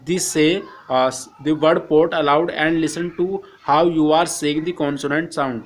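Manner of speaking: slow, careful reading of the English text; slow textbook reading. Acted. Teacher reading the textbook to Hindi-speaking students, slow and careful. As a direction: read each English phrase slowly for the class.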